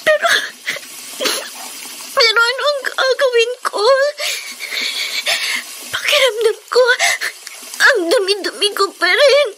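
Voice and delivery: despairing sob. Acted. Girl alone after abuse, despairing.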